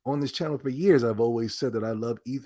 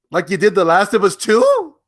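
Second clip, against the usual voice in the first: angry retort; 7 semitones higher, 11 dB louder than usual. Real, not acted.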